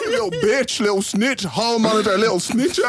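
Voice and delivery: mock him through laughter; laughing taunt. Real, not acted. Teasing name-calling, laughing.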